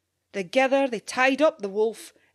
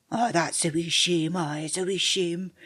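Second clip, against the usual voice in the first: friendly sympathy. Acted. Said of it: "gaed his best friendly patter".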